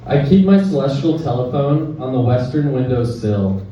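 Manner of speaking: measured poem recital with short pauses; poetry reading. Acted. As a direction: read it as verse, line by line. Reads own poem aloud.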